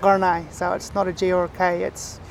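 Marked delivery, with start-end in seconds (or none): 0.0-0.5 Gunai said halfway between G and K, like Karnai; G and K rolled together. Shown as a demonstration. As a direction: blend the G and K in Gunai. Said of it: "I roll both the, the G and the K together".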